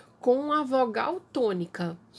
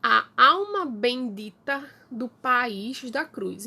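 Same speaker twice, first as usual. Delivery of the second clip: slow, measured poem reading; recited verse. Shown as a demonstration. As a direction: recite the anthem verse slowly, savouring each line. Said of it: "Palio sagrado". (leitura lenta e solene de poema)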